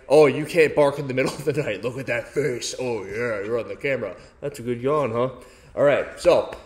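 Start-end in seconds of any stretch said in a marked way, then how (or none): 0.1-5.3 talking to a dog. Real, not acted. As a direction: coo tenderly at the puppy. Cooing to his dog on camera.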